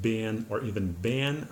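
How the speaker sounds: "bin" short I, "ban" like ben; the American variants; American been. Shown as a demonstration. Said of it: "pronounced not like in Great Britain".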